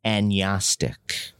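"agnostic" with silent g, as "an-YAS-tic"; French-style pronunciation. Shown as a demonstration. Comedian guesses how the French would say it, Frenchified. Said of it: "the French would say".

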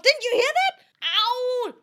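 high, piercing yell with rising question; loud yelling. Pretend. Asking if they heard that, yelling loudly. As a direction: scream the question at full volume. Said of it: "Oh fuck, that was loud".

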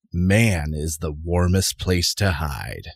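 slow, ominous tagline read; horror trailer voice. Acted. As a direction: intone Man is the warmest place to hide.

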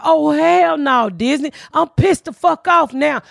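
drawn-out, pissed-off complaint; slow fed-up rant. Retold or imitated. To Disney, a slow drawn-out angry complaint. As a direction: spell out your anger slowly. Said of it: "I said".

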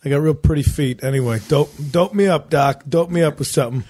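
lightly voiced doofus at the doctor; dopey mock voice. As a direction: play a dopey guy begging for drugs. Mocking himself asking for painkillers.

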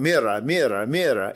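put-on Spanish words in a thick Southern hick accent. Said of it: "in your redneck ass hick accent saying Spanish".

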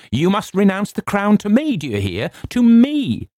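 very high, ringing demand; triumphant cry. A narrator's reading. Narrator demanding the crown from his cousin, triumphant cry. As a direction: build to a loud, high final claim. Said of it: "with a laugh of triumph".

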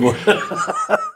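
a short real laugh bursting out. Real, not acted. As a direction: laugh at the memory of being the nuns' darling. Laughing after nuns' praise.

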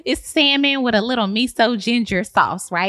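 put-on high, breezy gushing girl-talk; sassy realtor. Realtor bragging to her client, high and airy. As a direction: gush like a smug realtor.

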